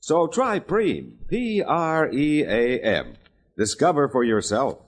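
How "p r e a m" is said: each letter spelled out slowly. Shown as a demonstration. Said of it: "spells out the brand name".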